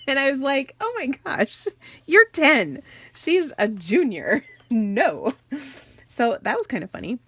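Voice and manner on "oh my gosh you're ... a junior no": high-pitched retold mock outrage; playfully appalled mother scolding her child; scandalised mom. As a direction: protest in comic disbelief, pitched well up at first. Mother's retold shocked reply to son.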